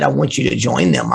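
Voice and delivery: a hint of a calm divine command; God's voice. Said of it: "he said".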